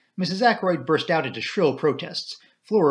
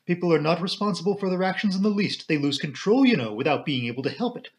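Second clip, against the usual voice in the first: plaintive matron; 5 semitones higher than usual. Acted.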